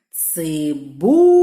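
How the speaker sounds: Цибуля called slowly with loud, drawn-out БУ; slow call of Цибуля, holding the У. Shown as a demonstration. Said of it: "Гукаємо".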